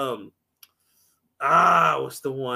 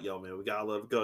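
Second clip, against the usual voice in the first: much lower, softer and fast; a hint of a nervous partner; quoting the partner; 12 semitones lower, 11 dB quieter, faster than usual. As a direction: mutter it low and quick. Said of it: "his partner was like".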